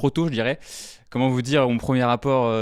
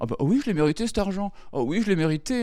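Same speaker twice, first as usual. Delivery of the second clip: much higher, hammed-up smug self-praise; smug rich kid; 7 semitones higher than usual. Comic mocks rich heirs, even higher and smugger. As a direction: gloat like a pampered heir. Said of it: "Et ils étaient la".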